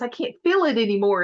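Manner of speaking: quick comic retelling of panic; mock freak-out. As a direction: blurt it out like a panicking character. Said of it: "he's freaking out".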